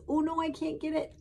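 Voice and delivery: high, fast worried dog voice; fretful dog. Retold or imitated. Dog frets about the bow to the witch, high and quick. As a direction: pup fussing he can't reach.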